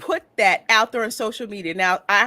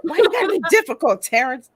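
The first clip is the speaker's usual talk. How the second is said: much higher, fast and teasing; teasing whine; 8 semitones higher, 5 dB louder, faster than usual. Real, not acted. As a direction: tease Terrence playfully. Teasing address.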